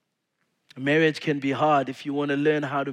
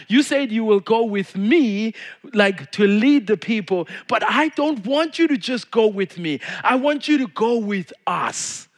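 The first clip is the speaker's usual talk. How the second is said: pleading Moses; 6 semitones higher, 5 dB louder than usual. Acted.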